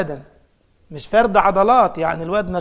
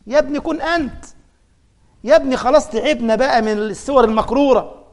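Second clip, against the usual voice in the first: higher, exasperated appeal; exasperated plea; 3 semitones higher than usual. Acted. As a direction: plead with him to stop imitating. Scolding the imitating reciter. (رجاء بضيق ونفاد صبر)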